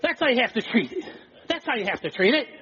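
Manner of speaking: laughing quote. Retold or imitated. Preacher retelling Wigglesworth's punchline, laughing. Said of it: "And Smith Wigglesworth says".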